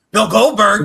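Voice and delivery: high loud incredulous echo; mock disbelief. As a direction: say the name as if it can't be true. Mock incredulous repeat of name.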